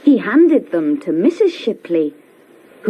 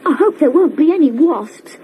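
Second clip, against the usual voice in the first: put-on higher, quick worried child; twin's worry; 7 semitones higher, faster than usual. A narrator's reading. Twin worrying about wasps, higher and quick. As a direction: fret a little like a small boy. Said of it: "said Tom".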